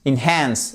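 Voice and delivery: "enhance" with the weight on "HANCE" and a strong H; stress on second syllable. Shown as a demonstration. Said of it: "le H ici qui est un son assez fort". (accent sur "HANCE" de "enhance", avec un H bien soufflé)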